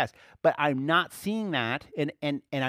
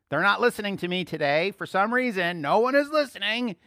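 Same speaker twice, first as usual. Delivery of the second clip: mock exasperation; 3 semitones higher, 6 dB louder than usual. Mock complaint to congregation.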